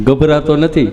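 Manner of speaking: low put-on voice for the patient; low mimicked answer; patient's reply. Friend answering nurse in skit.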